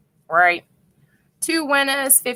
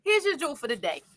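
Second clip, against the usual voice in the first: composed restart; 4 semitones higher, 9 dB quieter, faster than usual. Real, not acted. Restarts the jewel after laughing.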